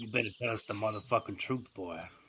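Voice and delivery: menacing, threatening tone. Shoving a shotgun in someone's face: threatening at gunpoint. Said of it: "put my goddamn shotgun in his face and be like".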